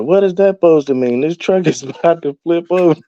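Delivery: mock panicked high voice, laughing through it; retold panic. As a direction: squeak it out like you're sure the truck will flip. Panicking driver retold to family.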